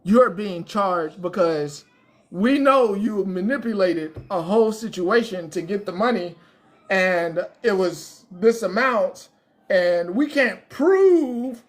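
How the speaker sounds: cop. Retold or imitated. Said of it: "knock on the door and be like".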